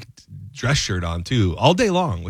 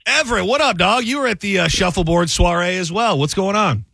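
excited greeting; 8 semitones higher than usual. Real, not acted. Greeting caller on air.

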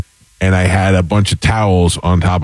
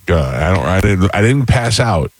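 ordinary delivery

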